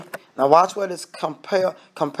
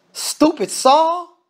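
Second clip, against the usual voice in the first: high, slow, scornful jab; preacher ridiculing Saul's foolishness; mocking scorn; 8 semitones higher, much slower than usual. Real, not acted. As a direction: sneer at him slowly. Preacher mocks Saul.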